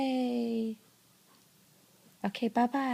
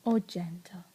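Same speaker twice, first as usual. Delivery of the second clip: whispering; 6 semitones lower, 4 dB quieter, slower than usual. Real, not acted. Telling toddler to be gentle.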